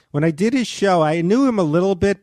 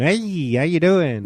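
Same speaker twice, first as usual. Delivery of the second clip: mumbly folk-singer-like Norm; Norm impression; slower than usual. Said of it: "It almost sounds like a famous singer".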